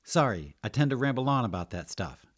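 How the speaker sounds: embarrassed rambler excusing herself; sheepish potion maker. Acted. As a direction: apologise for running on, high and loud.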